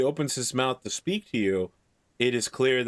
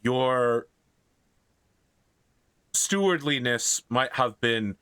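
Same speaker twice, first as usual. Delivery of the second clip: put-on Irish-accented grateful priest. Irish priest thanks and apologises to a great lord, Irish accent. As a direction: accept the gift in an Irish accent. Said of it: "in a very Irish accent".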